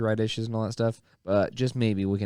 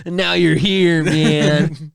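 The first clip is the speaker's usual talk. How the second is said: laughing shout; 5 semitones higher, 8 dB louder, much slower than usual. Acted. Joining the stoner bit.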